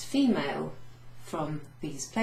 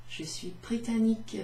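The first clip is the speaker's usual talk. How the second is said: "Je suis britannique" in a slightly higher lady's voice; a touch of a dainty lady; 4 semitones higher than usual. Shown as a demonstration. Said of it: "because I'm a lady".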